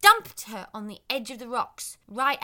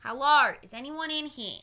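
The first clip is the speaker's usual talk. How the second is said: calling out loud into a cave; yelling; 3 semitones higher, 9 dB louder than usual. Acted. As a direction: shout hello into the dark. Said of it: "she started yelling at the cave door".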